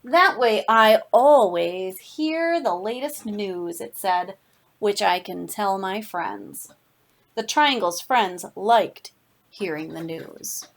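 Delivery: lively storybook read-aloud with slowed phrases; reading to children. Acted. Teacher reading a picture book to her class, animated storytelling. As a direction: tell it to a class of kids, savoring each line.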